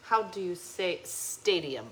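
put-on careful Belgian-accented English, hesitating before the word; imitated Belgian accent. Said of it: "And then they'd say".

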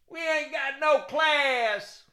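over-the-top imitation of a Southern redneck woman; mock redneck wife. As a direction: squeal it out slowly like a loudmouth Southern wife at a softball game. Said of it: "That was an actual quote".

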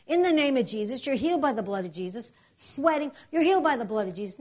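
rapid, urgent praying in Jesus' name; fast healing prayer. Retold or imitated. Pastor prays over a collapsing stranger, rapid urgent prayer.

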